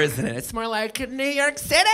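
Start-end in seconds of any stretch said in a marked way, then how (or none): 1.1-1.9 modern New York way. Retold or imitated. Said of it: "That's not really the accent anymore".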